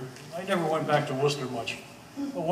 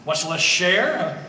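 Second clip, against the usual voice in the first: mock shock; 5 dB louder, much slower than usual.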